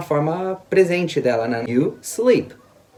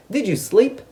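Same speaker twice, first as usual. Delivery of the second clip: "Did you sleep" pitched high, rising at the end; question intonation; 5 semitones higher, slower than usual. Shown as a demonstration. English teacher demonstrating a past question, questioning intonation. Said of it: "a entonação de pergunta".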